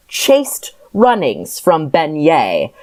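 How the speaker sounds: slow, coy lilt; lilting seductive. Acted. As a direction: lilt the name slowly as if flirting. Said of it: "she lilted seductively".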